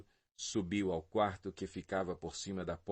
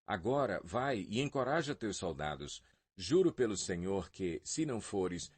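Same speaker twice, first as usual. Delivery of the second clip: raised, reproachful voice, building to a vow; stern rebuke. Acted. Joabe confronting the king over his soldiers, stern reproach. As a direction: scold the king firmly, voice lifting.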